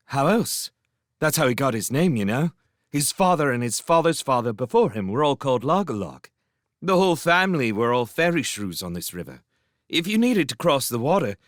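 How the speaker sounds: talking through a mouthful of bread; words round a bite of bread; mouth full. Acted. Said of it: "spoke through a mouthful of bread".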